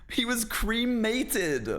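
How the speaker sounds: high, drawn-out "cremated" as "CREE-may-tid"; mocking American pronunciation. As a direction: parody "cremated" slowly with a long "cree". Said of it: "that sounds like a joke".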